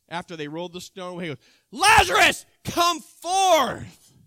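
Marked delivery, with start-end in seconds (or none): 1.7-4.1 loud, high shout into the tomb; commanding call. Acted. Jesus calling Lazarus out of the tomb, loud commanding shout. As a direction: call him out of the grave.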